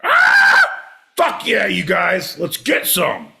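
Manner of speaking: very high, loud whoop of glee; triumphant whoop. Pretend. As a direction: cheer like you just won. Triumphant howler monkey cheer.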